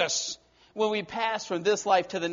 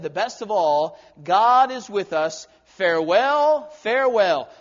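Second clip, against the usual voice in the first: louder, slow, solemn farewell; fervent last words; 7 dB louder than usual. Acted. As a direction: proclaim a dying farewell. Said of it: "John Wesley said".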